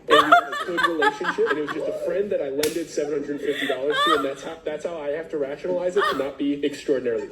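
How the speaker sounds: laughing. Real, not acted. Laughs about friendship with scammer.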